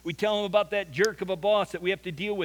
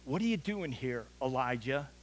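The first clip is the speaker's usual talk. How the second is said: hushed, soft and lower voice; gentle whisper; 6 semitones lower, 6 dB quieter than usual. Retold or imitated. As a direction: ask it softly, as if whispering God's question. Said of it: "but as a whisper".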